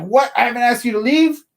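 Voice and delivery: high, indignant imitation of the angry guy; mock outraged homeowner. Angry homeowner demanding why I won't leave, mock outraged. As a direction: play up his disbelief, pitched high.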